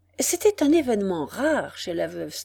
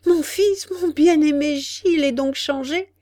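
much higher, louder, overjoyed; rapturous cry; 7 semitones higher, 6 dB louder than usual. A narrator's reading. Mother exclaims in delight about her son, much higher and louder. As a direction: burst out in joy. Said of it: "s'écria la mère avec ravissement".

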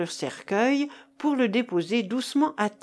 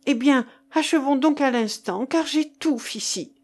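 higher-pitched, pressing urgency; urgent; 4 semitones higher than usual. Acted. Keinec urges Marcof to finish in the stifling vault, urgent. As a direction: press him to finish at once. Urging friend to finish in tomb.

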